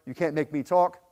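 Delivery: lightly voiced, stonewalling; muttered denial, mock Italian mafia; mafia style. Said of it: "typical Italian mafia style".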